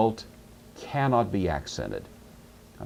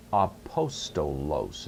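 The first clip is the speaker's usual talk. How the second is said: "apostolos" slow and lower, syllable by syllable; slow sounding-out; 4 semitones lower, slower than usual. Shown as a demonstration. Teacher introducing the Greek for apostle, slowly sounded out.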